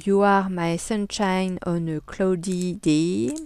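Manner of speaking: slow, careful English read with a French accent. Shown as a demonstration. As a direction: spell out the English slowly in a proudly French accent. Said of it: "je vais vous ressortir mon superbe accent anglais". (anglais lent avec un fort accent français)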